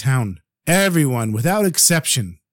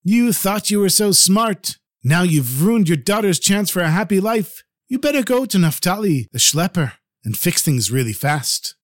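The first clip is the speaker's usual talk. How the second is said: shouting wife; 3 semitones higher than usual. Acted. Wife scolding her foolish husband, angry shout. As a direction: berate him like a furious wife. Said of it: "she shouted at him".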